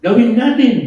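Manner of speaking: loud, high-pitched rallying cry; rallying call. Real, not acted. Preacher leads the congregation in a response, rallying call. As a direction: call it out for everyone to repeat.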